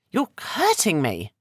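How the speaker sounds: high, slow, pained plea. Acted. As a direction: cry out under his grip. Grip on her shoulders.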